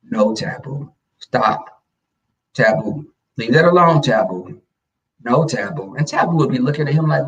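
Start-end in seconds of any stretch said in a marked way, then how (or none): 0.0-5.9 lightly voiced ineffectual ex; half-hearted telling-off; ex's weak scolding. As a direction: scold the pet without much force. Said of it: "gotta put bass in your voice".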